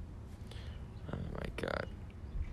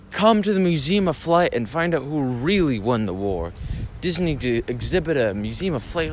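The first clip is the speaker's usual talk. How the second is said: a light, slightly louder radio ad voice; mock ad read; 3 semitones higher, 3 dB louder than usual. Mocking baseball radio ad reads, a hammed-up ad read. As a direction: parody the announcer's sponsor plug. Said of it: "these ad reads".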